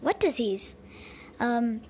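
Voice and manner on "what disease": whisper. Acted. Worried question, whispered.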